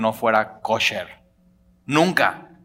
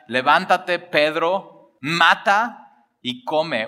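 solemn divine voice; 3 semitones higher, much slower than usual. Acted. Voice of God from heaven.

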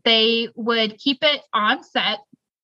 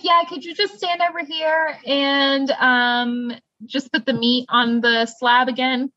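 lightly voiced boss, higher and laughing; breezy mock order to the guard; mock boss request; 4 semitones higher than usual. Crew boss sending a guard to the meat, laughing mock voice. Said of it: "They're like".

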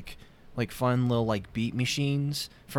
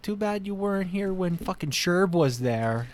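dismissive; 8 semitones higher than usual. Retold or imitated. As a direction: wave them off, unbothered. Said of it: "I'm like".

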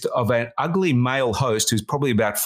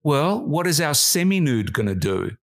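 earnest question; 2 semitones higher than usual. Retold or imitated. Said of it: "she paused and she said".

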